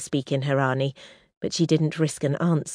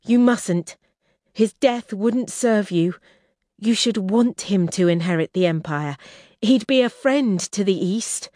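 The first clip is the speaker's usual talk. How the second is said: raised, insistent plea; urgent pleading; 5 semitones higher, 3 dB louder than usual. Acted. Kestrel begging Roshar to spare Verex, raised and insistent. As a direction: talk him out of it, voice up. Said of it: "her voice rising".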